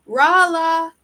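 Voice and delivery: high, loud yell of a name; full-voiced shout. A narrator's reading. Rumo yelling to bring the house down, loud shout. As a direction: shout the name at the top of your voice. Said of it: "Rumo shouted at the top of his voice".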